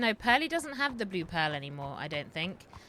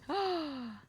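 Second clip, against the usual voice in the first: delighted gasp; 9 semitones higher than usual. Real, not acted.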